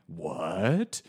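drawn-out, rising "what?"; incredulous reaction. Retold or imitated. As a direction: mimic someone in total disbelief. Mimics character's disbelieving reaction.

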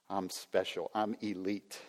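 a hushed self-satisfied claim; quiet smug boast. Retold or imitated. Pastor voicing entitled inner thoughts.

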